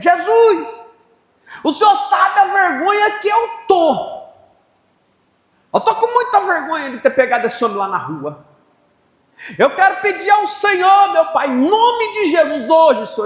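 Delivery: very high, swooping, shouted cry. Retelling a prayer over a man: retelling a shouted prayer. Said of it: "Mas gritei mesmo".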